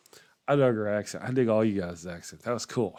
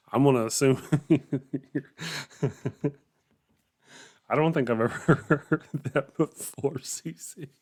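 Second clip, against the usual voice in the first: words breaking into real laughter; cracking up; 4 semitones higher than usual. Real, not acted. Baffled by British slang on stream, cracking up laughing. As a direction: try to talk while laughing hard.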